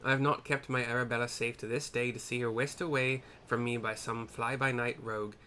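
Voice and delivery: lightly Irish-tinged proud father; kind of Irish. Acted. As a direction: boast with a hint of an Irish accent. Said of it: "I made him kind of Irish".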